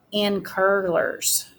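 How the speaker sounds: "in curlers" slowed down and given weight; teacher highlighting the added detail; stressed detail. Shown as a demonstration. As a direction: dwell on "in curlers" slowly. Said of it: "I left out an important detail".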